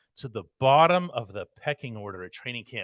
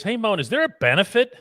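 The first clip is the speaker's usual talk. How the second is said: high, quick read of a fan's question; reading a listener's question; 5 semitones higher than usual. Retold or imitated. Host reading fan mail aloud, high and quick. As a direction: voice the listener's letter brightly. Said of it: "who says".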